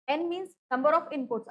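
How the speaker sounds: very slow, word by word; slow spelled-out definition; slow dictation. Shown as a demonstration. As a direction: dictate the definition so they can write it.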